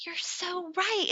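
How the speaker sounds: high, slow mock-tearful agreement; retold bawling. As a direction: draw it out in an imitated wail. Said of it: "like, bawling".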